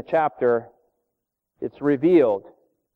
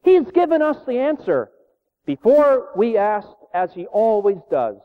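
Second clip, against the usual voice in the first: much higher, louder joyful discovery; excited; 6 semitones higher, 3 dB louder than usual. Retold or imitated. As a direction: tell her the good news, bursting with it, slowing. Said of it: "Betsy said excitedly".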